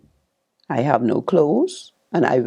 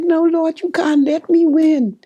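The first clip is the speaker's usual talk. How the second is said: retold crying plea; 14 semitones higher, 4 dB louder than usual. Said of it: "I'm crying to my husband".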